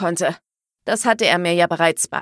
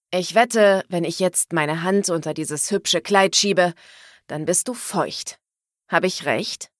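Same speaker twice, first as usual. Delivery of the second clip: teasing man. Acted. Neil teasing Liv.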